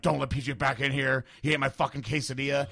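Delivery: loud, mildly acted grievance; imitated anger. Man banning the guy who ate his food, angry. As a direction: lay down the ban, mock-furious. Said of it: "Dave was mad as fuck".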